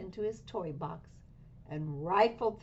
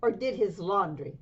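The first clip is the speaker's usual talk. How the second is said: louder, fussing mother scolding her kitten; 6 dB louder than usual. Acted. Mother scolds her son about what cats do, scolding loudly. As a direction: lay into him like a cross mother. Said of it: "she scolded".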